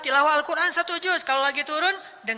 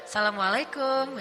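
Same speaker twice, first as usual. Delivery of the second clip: different tone. Shown as a demonstration. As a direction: stretch "Assalamualaikum" out, teasing and a little flirty. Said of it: "tapi nadanya beda".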